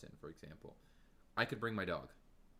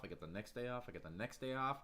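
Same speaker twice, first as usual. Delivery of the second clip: ordinary delivery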